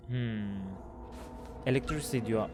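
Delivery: whispering while hiding. Real, not acted. Hushed reading while hiding.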